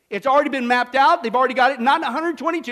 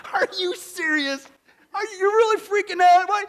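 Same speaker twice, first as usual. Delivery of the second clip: gently mock their panic; amused disbelief; 5 semitones higher than usual. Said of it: "what should we say?".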